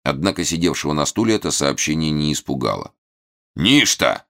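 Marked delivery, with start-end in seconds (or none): 3.6-4.2 sneering. A narrator's reading. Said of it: "осклабился он".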